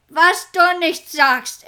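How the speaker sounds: slow, loud and grim; grim retort. Acted. Pirate chief answering his helmsman, grim and slow. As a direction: drag it out with menace. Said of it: "entgegnete grimmig".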